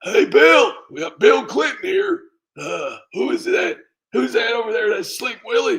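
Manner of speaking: high loud Hillary voice; Hillary impression. Shown as a demonstration. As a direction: call out to Bill like Hillary.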